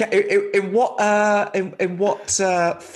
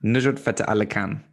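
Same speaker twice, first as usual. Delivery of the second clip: lightly attempted South Asian accent, lower pitched; 4 semitones lower than usual. Host copying guest's pronunciation, slight South Asian accent. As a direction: copy the name with a hint of South Asian accent. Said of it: "I shouldn't do an accent".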